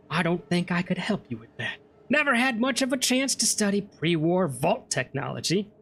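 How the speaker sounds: lightly voiced wandering trader. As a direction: read the trader's line with a hint of character. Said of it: "he did say that once already".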